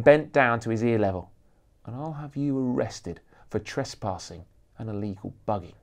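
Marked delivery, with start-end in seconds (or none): 1.9-5.8 hissed. Acted. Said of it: "he hissed".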